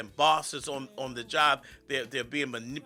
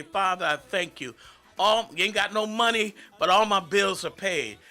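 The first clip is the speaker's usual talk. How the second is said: fervent thanks; 3 semitones higher than usual. Retold or imitated. Preacher voicing a thankful prayer.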